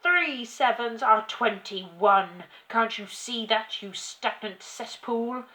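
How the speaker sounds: shouting tyrant. A narrator's reading. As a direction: berate the child, drawing out each insult. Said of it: "shouted the Trunchbull".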